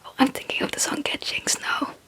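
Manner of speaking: ordinary talk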